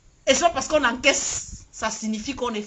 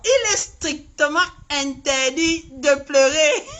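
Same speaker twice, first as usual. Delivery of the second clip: mock crying; 4 dB louder, slower than usual. Mocks supporters' crying.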